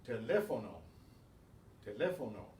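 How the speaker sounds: teléfono stressed on LE, te-LE-fo-no; Spanish teléfono with the accent on LE; stress on accented syllable. Shown as a demonstration. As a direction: lean on the second syllable of teléfono. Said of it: "put the stress on that".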